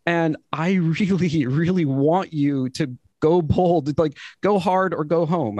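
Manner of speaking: fired up, voice wavering a little; steady voice with shaky moments. Real, not acted. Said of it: "I'm a little emotional about this".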